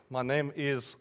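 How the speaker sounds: mock Russian-accented professor; bad Russian accent. Professor introducing himself to his class, bad Russian accent. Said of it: "don't like bad Russian accents".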